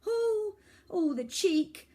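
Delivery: high, loud indignant squeal. Acted. Girl squeals at the boy's cheek, high and loud. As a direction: squeal with outrage. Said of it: "squealed Iris".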